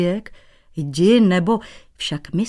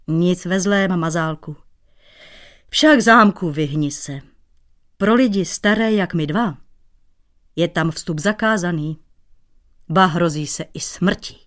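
good-natured. Acted. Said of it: "řekl dobrácky".

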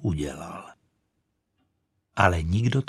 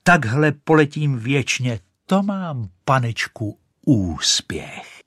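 higher, very slow cry; cry of delight; 4 semitones higher, slower than usual. Acted. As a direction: soar and exult. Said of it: "křičela".

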